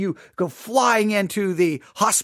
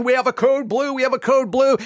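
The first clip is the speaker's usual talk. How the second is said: mock yell; 4 semitones higher than usual. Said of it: "They're yelling and screaming".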